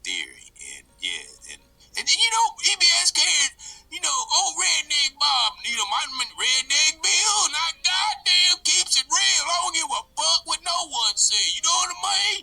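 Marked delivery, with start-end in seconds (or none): 2.0-12.4 higher twangy country redneck; loud rowdy redneck character. Acted. Redneck Bill preaches.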